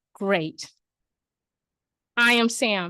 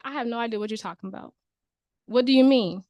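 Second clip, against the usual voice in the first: confused homeowner; faster than usual. Acted. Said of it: "This person's like".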